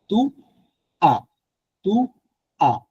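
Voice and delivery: "as" said as a bare open a, silent s, not English as or us; "Tu as" with a plain French a and no final s. Shown as a demonstration. Teacher to students correcting tu as, careful French sound. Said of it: "not as, not us".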